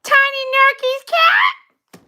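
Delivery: slow, questioning disbelief; incredulous. Pretend. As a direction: stretch it into a baffled question. Incredulous repeat of misheard name.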